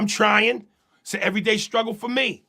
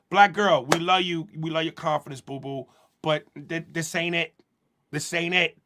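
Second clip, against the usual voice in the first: caring sister talk; 3 semitones lower than usual. Acted. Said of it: "why wouldn't you go".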